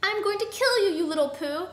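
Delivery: high, loud threatening yell; theatrical angry outburst; angry threat. A narrator's reading. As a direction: threaten your victim furiously. Attacker threatens the goose.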